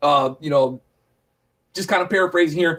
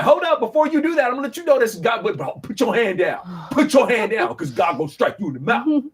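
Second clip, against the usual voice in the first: playful heads-up, hammed-up; mock warning; 3 semitones higher than usual. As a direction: wave him off like a buddy about to get hurt. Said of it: "Now, I don't know if that was like".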